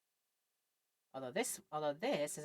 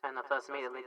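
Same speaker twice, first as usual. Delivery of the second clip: ordinary delivery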